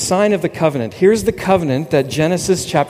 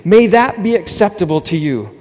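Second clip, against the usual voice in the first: mock earnest prayer; 4 semitones higher, 3 dB louder than usual. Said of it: "We often have prayer meetings like that".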